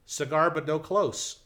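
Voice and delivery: called out slowly over the crowd; yelled quip. Retold or imitated. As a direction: shout the pun across the crowd. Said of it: "and I yell out".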